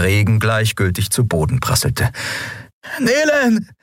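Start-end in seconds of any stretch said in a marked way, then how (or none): 3.0-3.7 viel höher, laut in die Ferne; gerufen. Acted. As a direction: verzweifelt nach den Freunden rufen. Miko ruft weiter im Wald. (Miko ruft allein im Regen nach den anderen)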